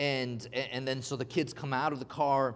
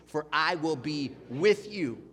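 slow repeat for the crowd; slower than usual. Shown as a demonstration. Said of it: "Can you say that with me?".

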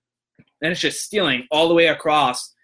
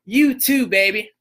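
high, bright mock sweetness; cooing thank-you; sweet cashier; 6 semitones higher, 4 dB louder, slower than usual. Cheered-up cashier wishing him well back, high and cooing. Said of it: "she's like".

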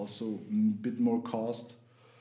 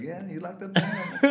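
mock eager questioner; 7 semitones higher, slower than usual. Acting out people asking about his name.

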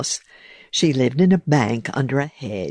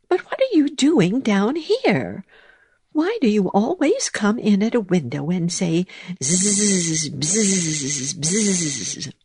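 high mouse voice; 6 semitones higher than usual. Acted. Mouse questions the bee.

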